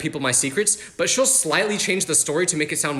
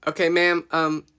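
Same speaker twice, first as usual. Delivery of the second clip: calm, bored operator. Retold or imitated. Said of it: "the operator was just like".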